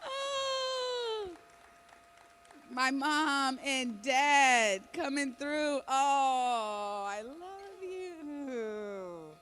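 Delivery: overwhelmed, crying as parents walk on; in tears. Real, not acted. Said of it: "She's in tears".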